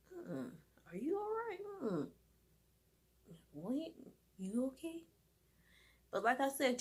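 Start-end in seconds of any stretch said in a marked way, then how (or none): 0.1-5.0 worried check on the cat. Retold or imitated.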